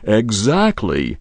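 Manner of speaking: slow, serious agreement; grave. Acted. Copy agreeing with the boy, slow and grave. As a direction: say it solemnly. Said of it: "said Copy gravely".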